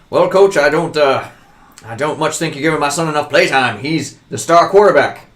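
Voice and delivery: pushy sports dad pressing the coach; dad complaining to coach. Acted. Dad pressing the coach about playtime. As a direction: lean on the coach like an entitled father.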